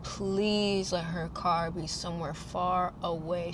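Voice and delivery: soft, slow, pleading prayer; hushed prayer. Retold or imitated. Praying her car isn't parked nearby, soft slow plea. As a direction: beg quietly under your breath.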